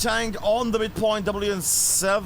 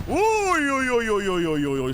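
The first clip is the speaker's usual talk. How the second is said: excited; 3 semitones higher, 4 dB louder than usual. Real, not acted. Hype call at a kill.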